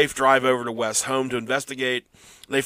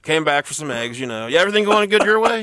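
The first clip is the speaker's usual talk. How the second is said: talking into hand phone; 3 semitones higher, 3 dB louder than usual. Pretend. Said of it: "He's talking it to his hand right now like it's a phone".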